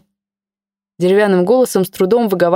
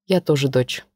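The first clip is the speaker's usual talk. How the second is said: quieter and lower, weary sadness; sad; 5 semitones lower, 4 dB quieter than usual. Acted. Mother confiding in her daughter, quiet sad voice. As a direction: say it heavily, tired of it all. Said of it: "грустно сказала Маша".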